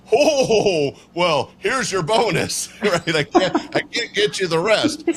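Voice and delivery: a caught-off-guard Santa laughing it off; flustered laughing Santa. Retold or imitated. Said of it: "And Santa goes".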